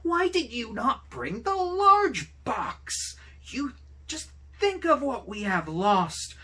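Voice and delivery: screaming. A narrator's reading. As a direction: shriek it at her husband in rage. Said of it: "she screamed".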